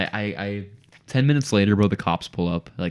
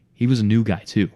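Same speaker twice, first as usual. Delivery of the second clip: ordinary delivery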